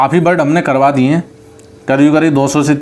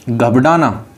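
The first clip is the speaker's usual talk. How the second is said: slow dictation; much slower than usual. Shown as a demonstration. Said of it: "dictating a word slowly".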